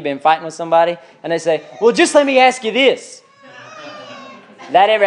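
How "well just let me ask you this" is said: higher-pitched imitation of an irritated challenge; mock the testy lead-in to an argument; mad, mid-fight. Someone fighting with you, mad and challenging. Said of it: "had somebody mad at you".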